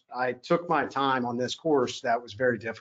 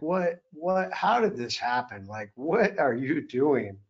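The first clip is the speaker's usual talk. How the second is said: slow, stretched-out questioning of himself; retold inner dismay, drawn out slowly; disbelieving self-reproach; slower than usual. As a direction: drag out each question in disbelief. Retells berating himself at rock bottom.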